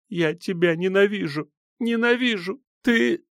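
high, tearful cry of hate; hysterical hatred. A narrator's reading. Silva in hysterics at the narrator, high and tearful. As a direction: scream the hate through sobs.

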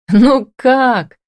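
high, merrily teasing reply; joyful. A narrator's reading. Husband answering his baffled wife, merrily amused. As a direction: crow it with amusement. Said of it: "радостно заржал Дема".

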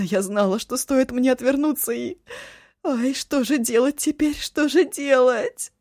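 high, loud, wailing sobs; sobbing wildly. Acted. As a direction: pour it out through frantic tears. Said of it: "бурно разрыдалась".

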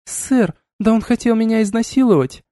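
high, indignant accusing; female voice accusation. A narrator's reading. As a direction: turn the blame on him. Woman accuses colonel. (высоким женским голосом, с обвинением)

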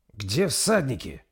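puzzled. Acted. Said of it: "озадаченно произнёс".

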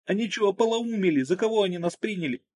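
wounded woman protesting in pain; hurt Margo. A narrator's reading.

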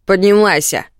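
резкий крик-команда; прикажи криком; громкий приказ. Acted. Муж приказывает жене встать. (громкий окрик)

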